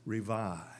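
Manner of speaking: soft whispered reveal. Shown as a demonstration. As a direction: breathe the word out in a whisper. Climax of the scripture reading.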